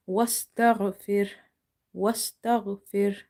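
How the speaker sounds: slow, evenly spaced syllables; recitation demo. Shown as a demonstration. Teacher modelling the word for learners, slow recitation. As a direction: recite it slowly, each joined syllable complete.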